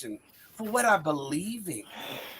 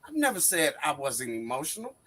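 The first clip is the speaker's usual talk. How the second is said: softer, quieter hurt denial; a quieter, hurt repeat of the denial; 4 semitones lower, 4 dB quieter than usual. Real, not acted. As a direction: say it wounded, pulling back. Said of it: "I am so hurt".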